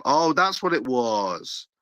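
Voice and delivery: slow, drawn-out mock revelation; sarcastic realisation. Real, not acted. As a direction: pretend it has all suddenly become clear.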